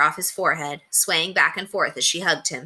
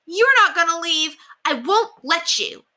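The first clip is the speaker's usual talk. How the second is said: put-on pleading boy; 12 semitones higher, 4 dB louder, slower than usual. A narrator's reading. Boy refuses to let her go.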